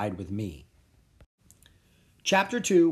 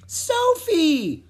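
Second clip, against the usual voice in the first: high, loud squeak of a name; 7 dB louder than usual. Acted. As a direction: squeak out when squeezed. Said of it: "I squeaked".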